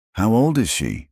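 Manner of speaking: strained, choked question; hoarse and strangled. A narrator's reading. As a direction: force it out through a tight throat. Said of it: "It came out hoarse, strangled".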